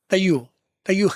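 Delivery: "तय्यू" as one blurred word; run-together pronunciation. Shown as a demonstration. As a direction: squash thought you into "तय्यू".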